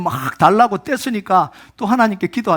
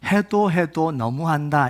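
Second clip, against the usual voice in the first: weary complaint; 3 semitones lower, slower than usual. Acted. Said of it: "무슨 생각이 들까요".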